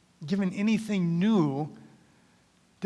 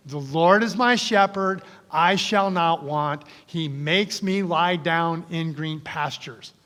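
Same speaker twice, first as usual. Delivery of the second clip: congregational recitation; slower than usual. Shown as a demonstration. Pastor leading the congregation to recite aloud together. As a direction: lead the room in saying it together. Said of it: "say it with me now".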